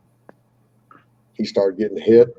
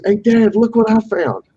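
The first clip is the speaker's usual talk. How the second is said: put-on higher eager kid voice asking; imitating his kid; 12 semitones higher, 3 dB louder than usual. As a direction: voice the boy begging to explore. Quoting his young son.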